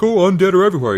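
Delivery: a mock-frightened townsperson; panicked townsfolk. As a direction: cry out like a frightened villager. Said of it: "They're like".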